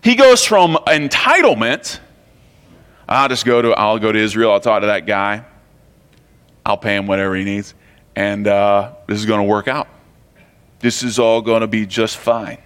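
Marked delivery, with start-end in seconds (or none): 3.1-12.6 low, offhand Brooklyn guy; Brooklyn accent. Acted. Preacher voices Naaman expecting things to work out, Brooklyn accent. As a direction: put on a low-pitched Brooklyn accent, casually confident. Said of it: "I don't know why he's from Brooklyn".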